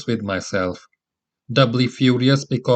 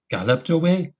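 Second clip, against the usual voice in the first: surprised; 6 semitones higher than usual. A narrator's reading. Narrator stunned by answer.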